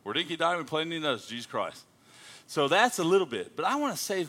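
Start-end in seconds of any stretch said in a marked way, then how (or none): 0.0-1.8 Aussie slang reeled off; Australian accent. Shown as a demonstration. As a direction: reel it off in Australian speak. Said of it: "that's Australian speak for you".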